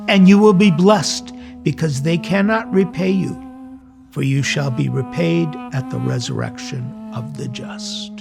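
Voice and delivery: ordinary talk, nothing marked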